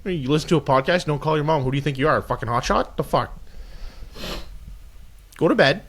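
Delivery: put-on mild Canadian hockey bro accent; a loose Canadian hockey bro sign-off. Canadian hockey bro accent, signing off the podcast to listeners. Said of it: "you do the sign off in that voice".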